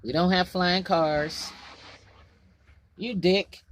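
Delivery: road rage at another driver; dad stuck in traffic. Pretend. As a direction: snap at the car ahead. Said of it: "Road rage".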